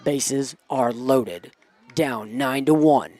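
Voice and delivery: slow, measured batter introduction; dramatic announcer setup. Real, not acted. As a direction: set the stakes slowly, phrase by phrase.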